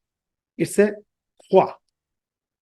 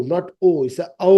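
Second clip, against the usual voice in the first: slow, careful ঔ set against ও; patient teacher correction; corrective emphasis; much slower than usual. Shown as a demonstration. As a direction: stretch ঔ to correct it. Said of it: "We said ও".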